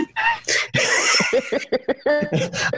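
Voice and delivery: a long, high burst of real laughter; delighted open laugh. Real, not acted. Laughs at stranger's witty retort.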